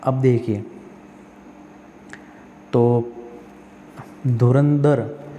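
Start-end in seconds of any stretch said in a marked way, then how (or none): 4.3-5.3 धुरंधर drawn out very slowly; slow careful reading. Shown as a demonstration. Teacher reads out the option slowly for students. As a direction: stretch धुरंधर syllable by syllable. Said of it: "धुरंधर नहीं होता है".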